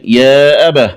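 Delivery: أبه ending in breathed h; stop on ha. Shown as a demonstration. Teacher showing the stopped form, أبه closed with h. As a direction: pause on أبه as "abah". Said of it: "ووقف عليها بالهاء".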